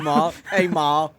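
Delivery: calling out to Ma. Pretend. Calling out to mom for fun.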